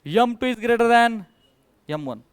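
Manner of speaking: very slow, spacing each word; slow dictation. Shown as a demonstration. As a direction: read the condition out deliberately. Teacher reads condition slowly. (हळू, ठासून वाचत)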